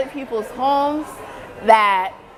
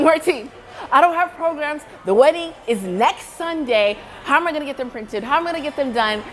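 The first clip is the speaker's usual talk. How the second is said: mild retold panic, starting higher; retold freak-out; 3 semitones higher than usual. Bride phoning her friend about missing programs, mildly freaking out. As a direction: worry tumbling out, quickening towards the end. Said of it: "when you're freaking out".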